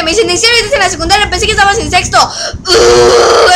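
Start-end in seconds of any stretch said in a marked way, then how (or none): 0.3-2.2 fast, incredulous imitating people; mock disbelief. Gente incrédula imitada. 2.2-3.5 low grunt of exasperation; frustrated groan. Real, not acted. Gruñido de fastidio.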